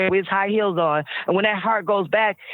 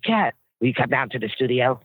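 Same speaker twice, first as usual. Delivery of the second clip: a light singer impression, lower; imitating a singer; 4 semitones lower than usual. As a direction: voice a singer calling her up, lower. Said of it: "I'm doing this like him".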